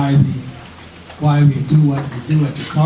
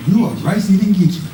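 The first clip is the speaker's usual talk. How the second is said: mocking. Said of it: "folks said".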